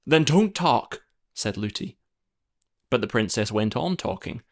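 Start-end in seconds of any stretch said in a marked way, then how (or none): 0.1-1.0 a touch of a short-tempered nurse; curt nurse. A narrator's reading. Nurse answers the chattering princess, mildly curt. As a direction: cut her off briskly.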